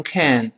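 slow "can" with full "æ"; full vowel can. Shown as a demonstration. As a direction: model "can" clearly, no T. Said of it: "能读成can".

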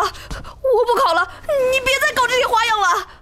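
pleading on the verge of tears; frightened candidate pleads tearfully. Acted. Begging examiner to stop.

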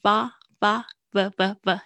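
ordinary talk

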